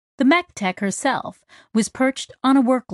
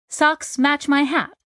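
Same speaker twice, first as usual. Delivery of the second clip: a bit higher, slow, naming the song; casual reply in her voice; lightly voiced Kizzy; 7 semitones higher than usual. A narrator's reading. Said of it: "she said".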